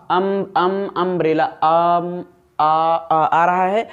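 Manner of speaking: अम pulled out slowly to show its opening sound; repeated अम, then आ; sound demo. Shown as a demonstration. Teacher showing students the vowel in अम्ब्रेला. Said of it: "तो आ यहाँ है".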